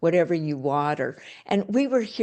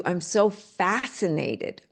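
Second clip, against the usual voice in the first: slow fascinated wonder; slower than usual. Shown as a demonstration. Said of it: "the tonality even sounds different".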